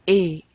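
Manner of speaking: A said loud as a lone "ay" vowel; "ay" sound. Shown as a demonstration. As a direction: punch "A" out as the sound "ay". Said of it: "sound at the end of a word".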